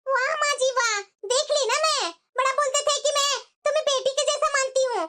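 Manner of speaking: indignant, reproachful outburst; angry complaint. Acted. Daughter-in-law to mother-in-law over breakfast, angry complaint. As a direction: protest with hurt annoyance. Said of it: "इतना गुस्सा मत हो".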